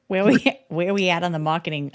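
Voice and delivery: playful Southern US accent attempt; Texas accent. Asking Blakely for a marketing update, mock Texas accent. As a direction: put on a Texas accent, amused. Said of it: "The Texas one was impressive".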